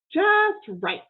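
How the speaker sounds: high, satisfied approval; pleased Amelia Bedelia. Acted. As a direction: admire the pie, contented. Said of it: "she said".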